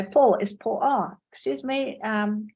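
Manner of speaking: caller politely asking for Paul; polite English caller. Retold or imitated. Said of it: "You'd have to say".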